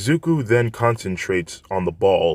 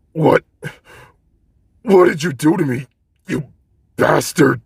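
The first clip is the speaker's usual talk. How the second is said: much higher, louder accusing yell; angry demand; 8 semitones higher, 5 dB louder than usual. Acted. Bakugo on the ground yelling at Izuku: angry accusing shout. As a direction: spit the insult up at him.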